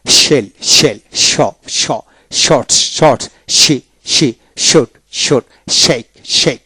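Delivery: শেল begun with a full "sh"; palatal SH opening. Shown as a demonstration. Teacher drilling SH words for students, palatal SH demonstration. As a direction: open শেক on "sh", not "s". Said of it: "এস এইচ তে কিন্তু তালিবস্য হয়".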